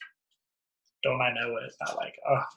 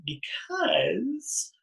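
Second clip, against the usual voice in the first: whisper; 8 dB quieter than usual. Real, not acted. Whispered advice to friend.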